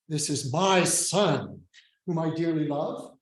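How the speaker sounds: "my" leaned on in "This is my son"; deliberate weight on "my", then a pause after "son"; stress on MY. Shown as a demonstration. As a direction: put the emphasis on the word "my". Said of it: "which word or words deserve the emphasis".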